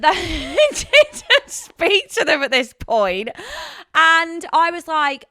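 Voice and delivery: chuckling narration; laughing while talking. Real, not acted. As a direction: talk through the laughter. Laughing while continuing the story.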